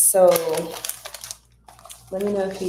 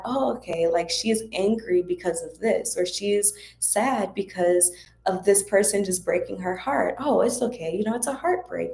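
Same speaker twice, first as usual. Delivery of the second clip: put-on comforting inner child. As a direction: talk to the hurt little girl inside. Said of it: "talking to the little girl that's within me".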